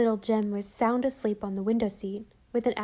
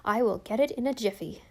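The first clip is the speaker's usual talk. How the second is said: briskly. Acted. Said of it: "said Susan briskly".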